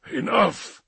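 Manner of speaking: high-pitched plea of surrender; exasperated cry. Acted. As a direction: call a halt, high but not shouted. Rantal repeats, sunk in chair.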